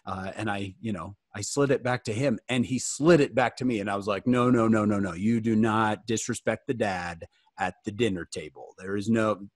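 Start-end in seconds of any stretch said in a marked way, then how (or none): 4.3-9.5 lightly played stern dad, pitched lower; a firm, lowered fatherly reprimand. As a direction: lay down the law like a dad. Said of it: "I had to use my dad voice".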